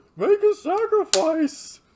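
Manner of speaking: excited, shrill, booming lecture voice, high and swooping. Imitating how a lecturer gets excited while teaching: imitating Jordan Peterson. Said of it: "He sounds exactly like that".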